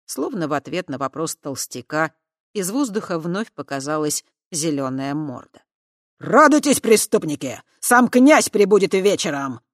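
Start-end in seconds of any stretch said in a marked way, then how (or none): 6.2-9.6 loud, high gloating spirit; ominous promise. Acted. Swamp spirit loudly gloating to the prisoners. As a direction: threaten the prisoners with glee. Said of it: "зловеще пообещал он".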